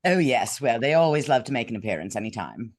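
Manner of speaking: playful put-on British accent. Shown as a demonstration. Actress answering about her British accents coming out, British accent. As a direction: let the British accent make an appearance. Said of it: "your British accents came out".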